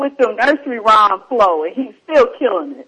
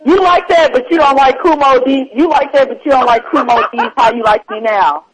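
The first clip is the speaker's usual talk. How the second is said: higher, louder mock outrage; teasing disbelief; 3 semitones higher, 3 dB louder than usual. Real, not acted. Host teasing guest about liking Snow, mock outrage. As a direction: rib him for his taste.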